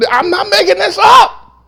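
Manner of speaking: high, loud preacher's cry; insistent shout. Real, not acted. Pastor insisting to church he read it, insistent shout. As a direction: shout it high to convince them.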